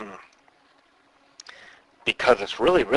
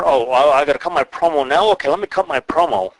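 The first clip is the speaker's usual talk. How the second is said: mock wrestler; 3 semitones higher, 4 dB louder, faster than usual. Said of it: "It's awful stuff".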